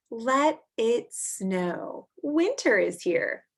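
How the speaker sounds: slow, drawn-out read-aloud; reading to children. Acted. Teacher reading a snow book to kids, slow and clear. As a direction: read each line slowly to little listeners.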